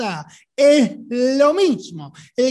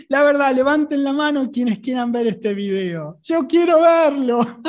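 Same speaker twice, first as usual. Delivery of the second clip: entre risas. Real, not acted. Bromea riendo con el público.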